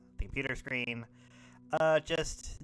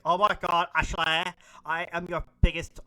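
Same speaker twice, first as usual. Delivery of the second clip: higher, loud starstruck fan; breaking into fangirl adoration; flipping out; 6 semitones higher, 6 dB louder than usual. Acted. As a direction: gush to your idol. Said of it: "are flipping out".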